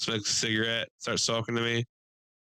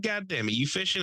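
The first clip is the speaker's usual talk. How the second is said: raised old man imitation; gruff old fisherman, pitched up; 8 semitones higher than usual.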